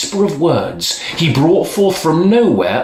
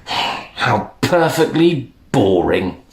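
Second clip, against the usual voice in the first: disgusted; slower than usual. Acted. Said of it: "said with disgust".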